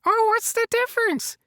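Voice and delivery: a lightly voiced cheery Elmo puppet; chirpy puppet character talking to the host. Puppet Elmo chatting with the host, lightly voiced.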